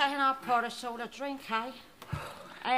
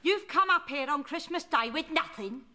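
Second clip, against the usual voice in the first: a cantankerous old London nan, put-on voice; put-on Cockney nan. Nan scolding her grandson, in a put-on old Cockney voice. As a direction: play the grumpy nan who wants no presents. Nan indignant about no present.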